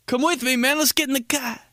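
high mock Italian-American voice; Italian-American dropped endings. Italian guy inviting a man along, hammed-up Italian-American accent. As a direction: imitate Italian-American speech, chopping off word endings. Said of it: "leave off the last three letters".

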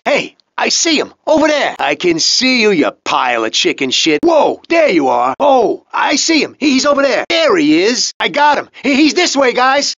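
high, excited shouts to the gang; calling out. Acted. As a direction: yell that you've spotted him. Hunter spots target, calls gang.

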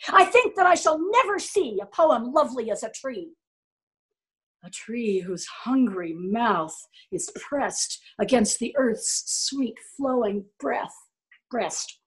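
slow, harsh overdone recitation; wrong tone. Shown as a demonstration. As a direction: recite the poem gratingly. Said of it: "A really gross misuse of tone of voice".

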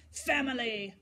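put-on irritable artist shouting at the girl; shouted. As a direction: bark the word back at her. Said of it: "shouted Degas".

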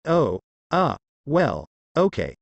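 slow, hesitant stammer; a touch of stuttering. A narrator's reading. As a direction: stumble nervously over the start. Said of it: "he stuttered".

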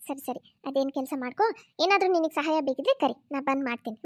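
gently waving off the apology; reassuring mother-in-law. Acted. (ಮೃದುವಾಗಿ ಸಮಾಧಾನಿಸುವ ಅತ್ತೆ)

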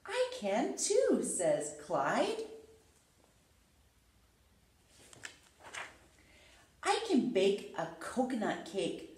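lively storybook reading with character voices; reading to children. Acted. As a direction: read aloud like bedtime story time. Reads picture book to children.

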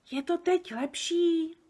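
high, slow, tentative question; careful small voice. A narrator's reading. Sofie checks with the giant, careful high voice. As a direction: test it out in a thin high voice. Sofie tries to speak softer.

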